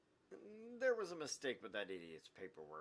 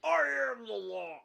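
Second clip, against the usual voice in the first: loud, high booming decree; hammed-up Judge Dredd shout; 13 dB louder than usual. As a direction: boom it like a comic-book judge. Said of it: "Judge Dredd".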